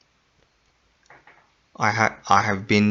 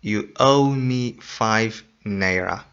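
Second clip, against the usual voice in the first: correct form, slow. Shown as a demonstration. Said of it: "You say".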